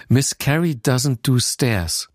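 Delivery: slow deadpan imitation of a manager; dry quoted verdict, no emphasis. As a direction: state it matter-of-factly, unhurried. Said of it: "meinte der so ganz trocken".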